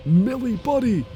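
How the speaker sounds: high sudden cry to the cat; startled call. Real, not acted. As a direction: yelp the cat's name in alarm. Cat jumps on streamer.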